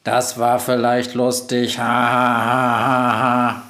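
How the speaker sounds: slow monotone amusement; robot having its fun; laughing robot. A narrator's reading. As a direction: end in a mechanical, even ha-ha. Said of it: "lacht Globus".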